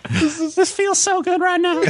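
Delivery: high, breathless through laughter; laughing. Real, not acted. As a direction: gasp it out mid-laugh. Laughing fit.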